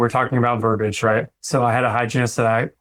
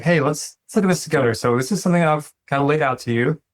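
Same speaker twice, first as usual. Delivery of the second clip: gentle, supportive; 3 semitones higher than usual. Retold or imitated. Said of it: "come alongside them and be like".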